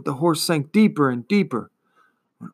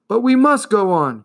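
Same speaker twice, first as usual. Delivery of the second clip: raised, higher, insistent cry; 8 semitones higher, 5 dB louder than usual. A narrator's reading. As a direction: urge on with a loud plea. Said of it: "cried Atreyu".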